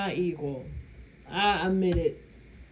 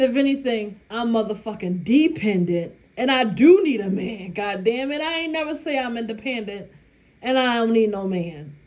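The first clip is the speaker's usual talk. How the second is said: loud protest; 3 dB louder than usual. Retold or imitated. Indignantly denying to chef.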